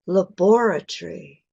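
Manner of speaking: British laboratory stressed on bor, ending in tree; British pronunciation. Shown as a demonstration. Teacher contrasting British and American English, British. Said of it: "is British".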